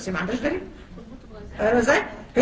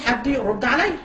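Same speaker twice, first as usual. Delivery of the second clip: retold cry out; 2 semitones higher, slower than usual. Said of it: "بصرخ وبقول لهم".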